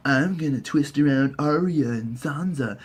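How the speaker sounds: soft, slow scheming whisper; hushed mock-sinister plotting; creepy whisper. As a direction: hiss the plan like a sneaky villain. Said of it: "and he's just like".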